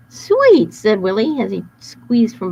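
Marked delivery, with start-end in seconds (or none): 0.1-0.7 very high loud squeal; gleeful. Acted. Wolf relishing his honey trap, gleeful. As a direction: savor the word.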